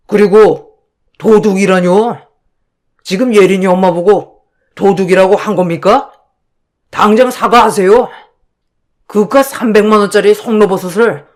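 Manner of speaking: a lightly voiced indignant husband; angry husband. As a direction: defend his wife, stern and offended. Narrator voices her angry husband. (화난 남편 목소리)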